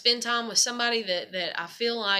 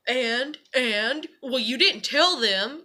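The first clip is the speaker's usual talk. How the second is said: higher, slow, whiny nitpicking; mocking husband; 4 semitones higher, 5 dB louder, slower than usual. Wife mocking her husband's nitpicking, whiny and slow. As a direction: mimic a petty complaint, dragging it out. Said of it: "to be a little shit prick".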